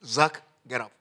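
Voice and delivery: calm call. Shown as a demonstration. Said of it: "You just call the person's name".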